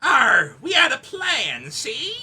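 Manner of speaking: gruff arr then mob drawl; pirate crossed with mobster; pirate mafia voice. Shown as a demonstration. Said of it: "Rhino, do pirate mafia voice".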